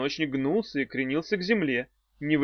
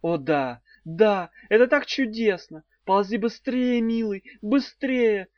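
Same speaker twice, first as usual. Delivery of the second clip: higher hammed-up eager urging; mock passion; 7 semitones higher, 3 dB louder than usual. A narrator's reading. Daf urging the worm toward the bus. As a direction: hurry him along, sweetly. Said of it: "сказала Дафна".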